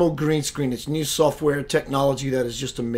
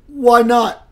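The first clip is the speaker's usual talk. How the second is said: eager yes; 8 semitones higher, 9 dB louder than usual. Retold or imitated. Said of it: "I was like".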